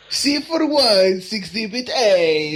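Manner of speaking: slow, drawn-out fake Russian; hammed-up bad accent for laughs; mock Russian accent. Co-host clowning as the attorney mid-recap, mock Russian accent.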